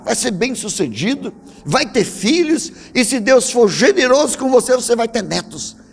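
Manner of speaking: put-on gentle Italian priest accent. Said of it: "falava com aquela voz italiana".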